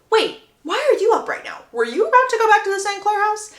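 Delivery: lightly voiced surprised fiancée; voiced Hyacinth. Hyacinth's suspicious question voiced.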